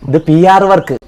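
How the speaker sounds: ആർ said loud and high, falling; stress on ആർ. Shown as a demonstration. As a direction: hit ആർ hard to set it apart. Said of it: "അത് P W D work".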